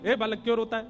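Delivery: lightly voiced child pleading; upset child. Child complains loudly to doorman. (हल्का सा रोता बच्चा, ऊँची आवाज़ में शिकायत)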